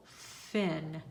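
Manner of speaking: "fin" as a lone, careful syllable; sounded out. Shown as a demonstration. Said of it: "Now sound out your syllable".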